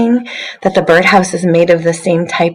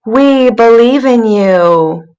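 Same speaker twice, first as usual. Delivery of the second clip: encouraging brush; 4 semitones higher, 3 dB louder, slower than usual. Acted. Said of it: "the brush is saying".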